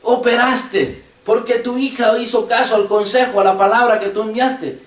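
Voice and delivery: high-pitched, mildly excited thanks to a father; celebrating thanks. Retold or imitated. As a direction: re-enact giving joyful thanks without raising the volume. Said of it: "yo ya estaba haciendo fiesta, diciéndole".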